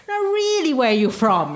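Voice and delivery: mimicked taxi driver pressing the question, pitch starting high; mock-insistent, high then falling. Taxi driver pressing her on origins.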